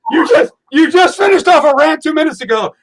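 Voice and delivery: ordinary talk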